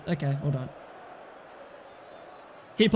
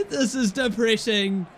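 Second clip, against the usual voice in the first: bitter laugh; 2 semitones lower than usual. Real, not acted. Laughs at own misery.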